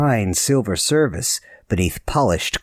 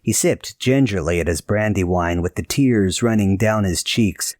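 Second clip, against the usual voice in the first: ordinary delivery, nothing marked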